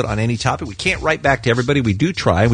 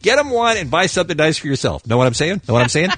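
higher, mock-pleading email read; put-on reading voice; 5 semitones higher than usual. Host reading a listener's complaint to Lisa, put-on voice. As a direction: read it out with exaggerated exasperation. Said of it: "Why am I talking like this?".

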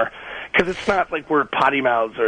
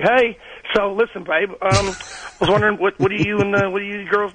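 slow, higher-pitched Southern drawl; 7 semitones higher than usual. Retold or imitated. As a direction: slip into an easy Southern drawl while chatting. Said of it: "I couldn't stop doing that".

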